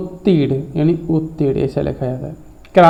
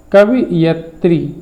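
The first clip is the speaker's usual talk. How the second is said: slow careful word; much slower than usual. Shown as a demonstration. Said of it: "यहाँ छोटी की नहीं".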